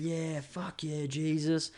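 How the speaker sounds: slow, drawn-out mock cheer, high; imitating cheering. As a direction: mimic the crowd whooping slowly. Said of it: "Everyone's cheering".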